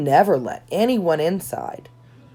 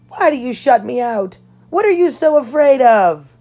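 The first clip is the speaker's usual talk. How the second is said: higher and louder, demanding answers from her sister; angry pleading outburst; 8 semitones higher, 7 dB louder than usual. Acted. Anna confronting her sister Elsa at the party, anguished shout. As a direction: throw the hurt at her like an accusation.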